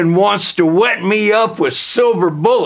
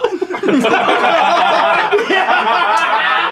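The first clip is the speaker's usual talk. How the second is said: laugh; 9 semitones higher than usual. Real, not acted. Laughing at own line.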